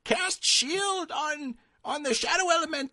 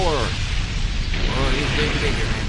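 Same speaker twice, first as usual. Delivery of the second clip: deep character voice; 4 dB louder, slower than usual. Acted. Player voicing deep-voiced character.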